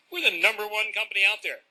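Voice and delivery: a mock-proud salesman; bragging presenter. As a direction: oversell the firm to the audience. Parodies a boastful company presenter.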